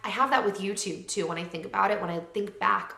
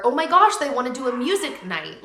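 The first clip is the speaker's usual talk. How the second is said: much higher, louder squeal; squealing excitement; 4 semitones higher, 7 dB louder than usual. Retold or imitated. Telling viewers friends want a music night, squealing. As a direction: squeal like you can't contain it. Gushing over friends' plans.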